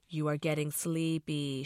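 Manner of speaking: droning. Acted. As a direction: drone it like a mock hypnotist. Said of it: "she droned".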